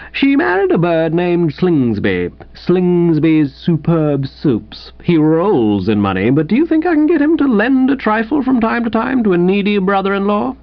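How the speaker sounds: mildly bitter grumble climbing high at the end. Acted. Invalid grumbling about his rich brother-in-law, mildly bitter. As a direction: complain with a touch of resentment. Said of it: "said Lucius Pym bitterly".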